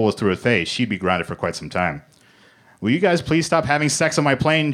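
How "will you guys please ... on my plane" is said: higher-pitched, exasperated demand; insistent, raised-pitch complaint. A narrator's reading. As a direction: plead and insist at once, pitched up. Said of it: "Joe demanded".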